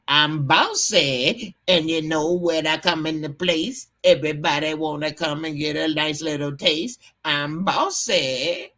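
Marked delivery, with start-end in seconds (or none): 0.1-1.6 impression of a rapper. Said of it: "It's Bossy". 7.2-8.7 impression of a rapper. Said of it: "It's Bossy".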